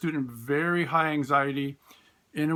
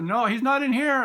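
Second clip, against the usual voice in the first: mock outside voice; 9 semitones higher, 5 dB louder than usual. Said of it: "a voice from the outside".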